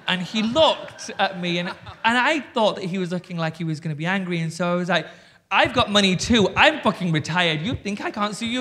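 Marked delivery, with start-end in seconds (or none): 5.5-8.6 loud, raised, combative threat; a loud retold warning to the producer; defiant outburst. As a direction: hit back at him, louder and higher. Threatening producer back after quitting.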